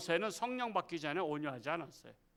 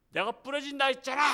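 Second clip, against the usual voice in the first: higher, louder mock gloat; gloating shout; 8 semitones higher, 5 dB louder than usual. Arm-twisting man gloats at his victim, mock shout. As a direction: throw it back, higher and louder.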